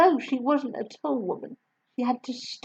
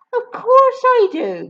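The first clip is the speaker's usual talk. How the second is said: put-on higher, louder gentle young woman; kind teacher voice; 10 dB louder, slower than usual. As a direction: warm young teacher reassuring. Miss Honey voiced.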